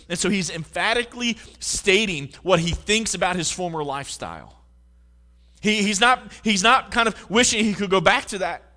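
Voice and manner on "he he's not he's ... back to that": 1 loud emphatic preaching. Real, not acted. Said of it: "preaching emphasis".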